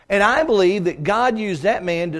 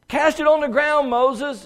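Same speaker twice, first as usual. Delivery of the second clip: voice of God; 8 semitones higher, slower than usual. Acted. Preacher voices God to Moses.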